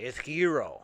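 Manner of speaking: correcting a friend: "gyro" as "yee-roh"; Greek pronunciation. Retold or imitated. Greek friend corrects the name: "gyro" said "yee-roh". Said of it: "he would always get mad and say".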